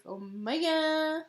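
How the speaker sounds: drawn-out rising imitation of a singer. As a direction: stretch it out slowly, pitch climbing. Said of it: "when" a singer "says that. He's like".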